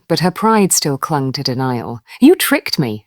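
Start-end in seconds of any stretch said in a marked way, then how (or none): 2.2-3.0 screamed. A narrator's reading. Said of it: "she screamed".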